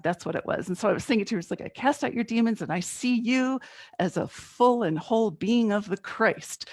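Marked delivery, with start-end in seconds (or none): 1.6-6.7 higher, preachy blessing that slows at the end; a half-playful revival preacher casting out demons; mock Southern preacher. Blessing the screaming neighbor, mock Southern preacher proclaiming. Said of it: "I was gonna be a Southern preacher".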